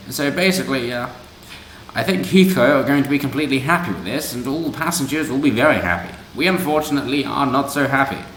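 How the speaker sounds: a silly put-on Mog accent read of the activist's words; mock Mog accent. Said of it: "he said".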